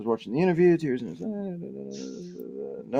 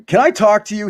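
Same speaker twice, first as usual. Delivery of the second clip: urgent, harsh demand, a bit higher and louder; 7 semitones higher, 4 dB louder than usual. A narrator's reading. Sid confronts Vanessa at the van, harsh and urgent. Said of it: "he asked with a harsh, with, with harshness and urgency".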